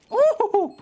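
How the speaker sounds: sudden very high, loud ooh; excited ooh. Real, not acted. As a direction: yelp at the big play. Caster reacts to a play.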